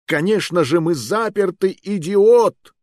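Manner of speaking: high, loud furious yell; shouting at a friend in panic; angry shout. Acted. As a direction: blast him with rage. Furious outburst at companion.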